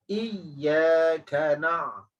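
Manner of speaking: very slow, drawn-out recitation; Quran recitation. Shown as a demonstration. Teacher reciting the verse slowly. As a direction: chant it slowly. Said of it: "bukan ain".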